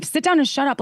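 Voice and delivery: a high, sharp mock order; harsh command. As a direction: bark it out like a rude boyfriend, lightly. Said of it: "if he said it in a way that".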